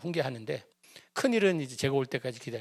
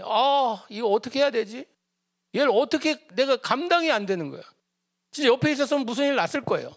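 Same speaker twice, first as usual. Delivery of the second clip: higher, urgent, faster at the end; agitated; 8 semitones higher than usual. Retold or imitated. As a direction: relive the blood rushing to your head. Father recalls boiling anger.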